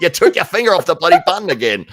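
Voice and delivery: high loud fast furious outburst; mock furious yell. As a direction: explode at the producer. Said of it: "he's like".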